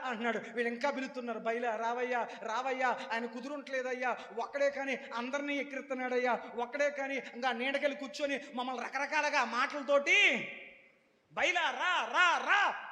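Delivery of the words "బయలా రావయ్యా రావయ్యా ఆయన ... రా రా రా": rising desperate calling, louder to the end; pleading call. Retold or imitated. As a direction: beg Baal to come, building to shouts. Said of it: "అని ఎంత పిలిచినా". (ప్రవక్తలు బయలును బిగ్గరగా వేడుకోవడం)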